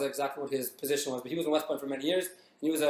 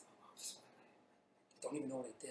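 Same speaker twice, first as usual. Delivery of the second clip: scared whisper, words halting and barely getting out; 20 dB quieter than usual. Retelling a scared new soldier answering an officer: imitating struggling to speak. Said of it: "trying to get the words out".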